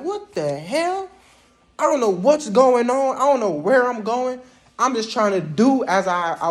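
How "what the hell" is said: scared recruit. Retold or imitated. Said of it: "I'm like".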